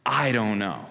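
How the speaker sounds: slow, broken up with long pauses, fading; drawn out, each word dropped alone; halting admission. Retold or imitated. Healed man admitting he doesn't know, slow and halting. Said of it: "He says".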